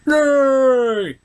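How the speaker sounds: loud, high mock cheer; high squealing yay. Cheering pony at the story's hopeful end, high and loud.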